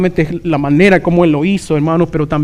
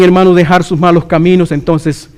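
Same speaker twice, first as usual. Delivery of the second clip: ordinary delivery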